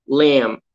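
"lamb" said with a silent B, ending on M. Shown as a demonstration. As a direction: say "lamb" without sounding the final B. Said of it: "O B no final, ele não é pronunciado". ("lamb" com o B final mudo)

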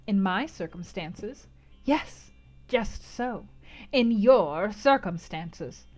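slow, drawn-out agreement; slow knowing echo. Acted. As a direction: savour the phrase. Gypsy echoes slowly.

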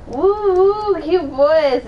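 high, squealing fan-girl imitation; giggly girl imitation. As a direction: swoon like a giddy teen girl. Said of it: "The girl in the video store is all like".

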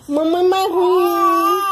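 mock baby whine. Mother voices her fussy baby complaining, mock crying. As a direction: play the sulky baby blaming mommy.

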